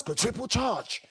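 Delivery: slow, mostly voiceless imitation; slow, husky mock boast; mock bass voice. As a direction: drag out the boast like a slogan. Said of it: "you have bass in your voice".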